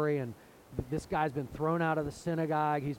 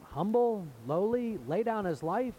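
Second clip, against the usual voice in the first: ringing emphasis; 5 semitones higher, 3 dB louder than usual. Real, not acted. Preacher's climactic emphasis.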